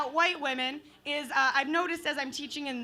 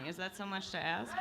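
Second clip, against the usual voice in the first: ordinary talk, nothing marked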